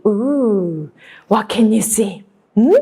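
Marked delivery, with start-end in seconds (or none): none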